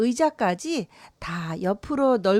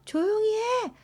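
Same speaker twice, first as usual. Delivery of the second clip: father's shout; 9 semitones higher, 3 dB quieter than usual. A narrator's reading. Father telling Nora off for her noise, mock shouting. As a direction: read as a father yelling, volume held back. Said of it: "하고 소리를 질렀고요".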